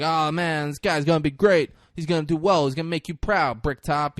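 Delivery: butter up the boss; acted gushing toady; sucking up. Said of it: "Gary's kissing his ass".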